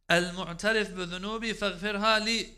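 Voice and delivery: fervent recited confession; recited supplication. Retold or imitated.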